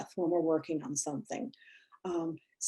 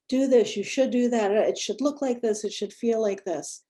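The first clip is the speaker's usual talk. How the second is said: mock bossy demands; 3 semitones higher than usual. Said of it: "bombarded at us, like".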